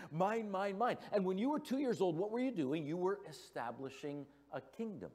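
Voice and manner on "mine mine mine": higher, lightly voiced greedy toddler; toddler grabbing toys. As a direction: chant it like a grabby little kid.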